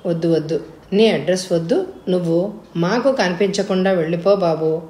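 a touch of sorrow; sadly. Acted. Father sending Prasad away for good, mildly sad. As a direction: let the refusal ache a little. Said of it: "అన్నారు బాధగా".

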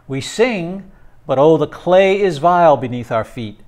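a teacher reading a grave poem to the class. Acted. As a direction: read it with weight and measured pauses. Reads the poem aloud.

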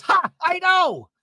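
high, drawn-out cry of agreement; hammed-up imitated wail; mock wailing. Vicky answering her own eulogy, mock wailing.

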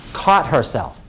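soft, low echo of testimony; hushed repetition. Retold or imitated. Lawyer repeating testimony for jury, low and quiet. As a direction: drop down low and soft to underline it. Repeats key phrase, dropped voice.

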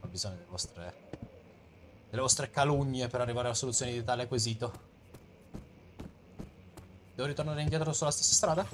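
ordinary talk, nothing marked

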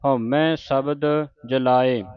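very slow syllable by syllable recital; slow scripture recital. Shown as a demonstration. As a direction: recite it slowly for learners. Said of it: "ਉਚਾਰਨ ਸਿੱਖਣਾ ਹੈ".

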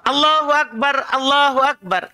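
Allahu Akbar sung like the call to prayer, Allahu rising then falling; adhan melody. Shown as a demonstration. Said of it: "Nadanya harus pas".

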